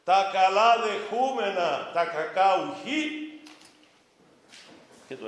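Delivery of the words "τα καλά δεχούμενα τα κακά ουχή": loud, slow, solemn: "τα καλά δεχούμενα, τα κακά ουχή" declared with weight; Job's verdict intoned loud and slow; solemn proclamation of Job. Retold or imitated. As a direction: proclaim Job's words slowly, like scripture. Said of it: "είπεν και ο Ιώβ".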